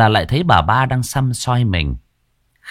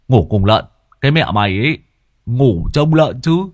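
louder, stressing Lợn; indignant retort; 4 semitones higher, 4 dB louder than usual. Acted. Friend retorting to Dần, louder and indignant. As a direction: snap back offended.

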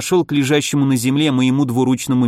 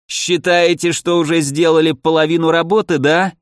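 wild unhinged ranting; 3 semitones higher than usual. Acted. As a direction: taunt them like a deranged old man. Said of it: "крикнул он нам и безумно рассмеялся".

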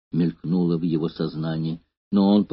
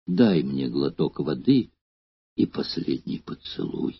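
weak, soft voice fading to breath; last words on the battlefield; deathbed whisper; 4 semitones lower, 5 dB quieter than usual. A narrator's reading. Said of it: "шептал Эномай слабеющим голосом".

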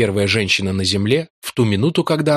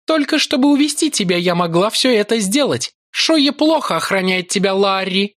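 seductive priestess voice; 12 semitones higher than usual. A narrator's reading. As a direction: purr it like a cruel seductress. Yolara taunting Larry. (высокий голос коварной соблазнительницы)

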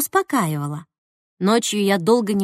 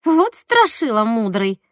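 blurted remark; slower than usual. Acted. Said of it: "брякнула Марина".

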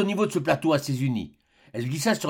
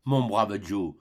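a touch of heartfelt gratitude; doctor thanking Joe warmly; with effusion; 4 semitones lower, slower than usual. Acted. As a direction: embrace him with words. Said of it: "avec effusion".

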